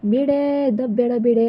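loud protest. Acted. Pushed out, protests loudly.

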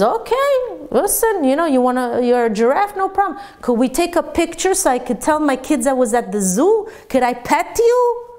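high, eager, mock-accommodating; student humoring a classmate who says he's a giraffe. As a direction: play along sweetly with the absurd.

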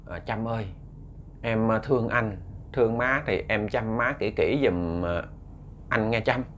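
a man softly asking his fiancée to care for his mother; gentle request. Acted. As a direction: ask her kindly, almost hushed. Ten gently asks fiancée a favor.

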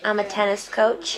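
attempted Canadian accent; Bree's Canadian accent. Copying friend's tennis coach line, Canadian accent. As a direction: echo it with Canadian vowels. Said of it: "trying to do Bree's accent, which is Canadian".

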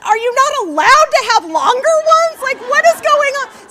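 loud, high, fast incredulous rant; comic disbelief at yet another short name, shouted; exasperated outburst. Retold or imitated. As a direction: blurt out mock outrage. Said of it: "I'm like".

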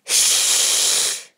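whispered shush; hushing shh. Acted. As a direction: hush the child sharply. Teacher hushing the class.

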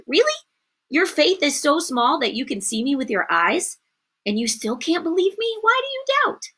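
questioning, rising to a high pitch; acted incredulity. Jesus to Peter who can see him, incredulous. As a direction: build to a high, disbelieving question.

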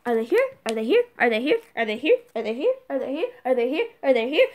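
eager repeated asking, each rising at the end; antsy, sing-song questioning; impatient window-watcher. Acted. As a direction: pester on a loop, lilting up. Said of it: "I'm like".

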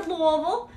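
Louisville said the way Kentuckians say it; Kentucky Louisville. Real, not acted. Live seller announcing an order headed home, Louisville in Kentucky speech. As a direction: say Louisville like a local from Kentucky, not the outsider way. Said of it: "'cause I said Louisville".

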